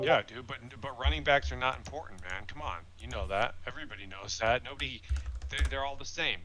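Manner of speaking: mock-insistent, pitch lifted; sarcastic. Host teasing co-host about running backs, sarcastic. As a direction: argue it as if obvious, tongue in cheek. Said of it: "I'm being sarcastic".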